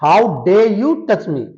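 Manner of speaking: slow, drawn-out indignant demand; indignant British line. Shown as a demonstration. Teacher acts out an English movie line, slow and indignant. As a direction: stretch each word like an offended lady. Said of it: "English में एक word बोलते हैं".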